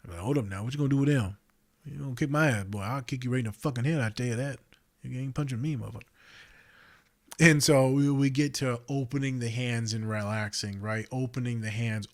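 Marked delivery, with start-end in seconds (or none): 0.2-6.0 lightly voiced street-tough warning, a bit fast; mock tough threat. Counselor mock threatening a client clenching fists. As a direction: play at squaring up to a client.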